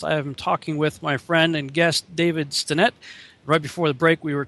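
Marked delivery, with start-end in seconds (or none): 0.0-2.9 brisk on-air welcome back; radio host intro. Real, not acted. Host opening the final segment of the broadcast, radio intro. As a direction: bring listeners back into the show.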